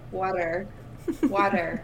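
"Water" with a careful final R; practising the R. Shown as a demonstration. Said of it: "that was pretty good".

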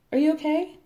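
imitating Sarah. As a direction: sing it up brightly, like a worried friend.

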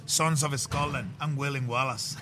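slow, hammed-up Scottish battle-speech accent; a light mock Braveheart rallying cry in Scottish; William Wallace Scottish accent. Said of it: "Give me your best haggis".

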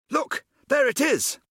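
high, loud excited call; young man spotting the ship, calling out high and loud; excited cry. Acted. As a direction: point and shout with excitement. Character spots the spaceship.

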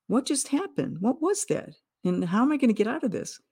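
bewildered. Retold or imitated. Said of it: "it was like".

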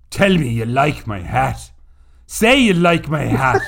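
hammed-up terrible Irish accent, loud on the second plea; Tom Cruise's bad Irish accent. Quoting Far and Away to John John, mock bad Irish accent. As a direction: do a mock film Irishman with a dreadful brogue. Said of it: "It was the worst Irish accent".

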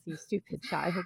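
quiet, cold scolding; lightly voiced haughty queen; Lady Catherine tone. Speaker imitating Levana scolding Cinder, cold quiet reproach. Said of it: "that's the tone of voice that I hear".

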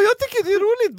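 very high, loud mock-scared voice; cowardly squeal. Storyteller mocking his own cowardly answer to a stranger, high squeal. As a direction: squeak it out like a frightened weakling. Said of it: "Jag står som en bitch".

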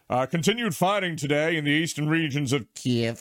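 mock formal newsreader; news reporter voice. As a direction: read it like a BBC bulletin. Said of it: "all the news reporters have clearly been briefed".

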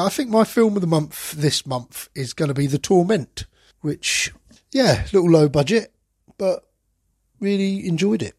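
slightly croaky voice from illness; hoarse, croaky voice getting over covid. Real, not acted. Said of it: "croaky voice".

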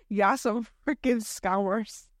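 slow drawn-out jab through laughter; mock scolding the staff while cracking up; laughing jab. Scolding the coffee staff over paid syrup, slow and laughing. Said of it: "I'm like".

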